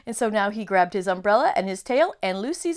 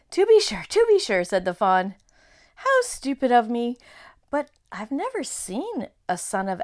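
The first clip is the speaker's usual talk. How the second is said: flustered fawn; 4 dB louder than usual. Acted. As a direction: bluster like a nervous faun. Fawn dialogue.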